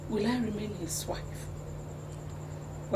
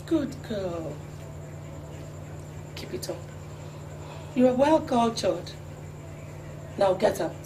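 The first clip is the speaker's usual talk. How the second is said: cold dismissal; 4 semitones lower than usual. Acted. Queen dismissing a subject.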